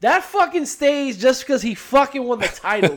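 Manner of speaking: laughing. Real, not acted. Laughs while insisting.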